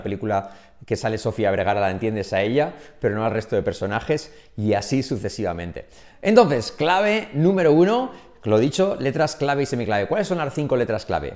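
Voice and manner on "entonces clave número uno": 1 announcing. Real, not acted. Announces key number one.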